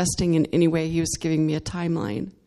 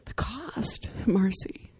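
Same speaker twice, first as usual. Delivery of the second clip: God's soft reply; 8 dB quieter, slower than usual. Retold or imitated. God answering her softly.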